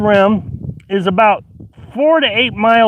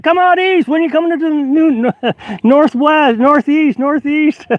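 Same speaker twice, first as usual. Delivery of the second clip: imitating eager urging; 8 semitones higher than usual. Imitating everybody now urging east.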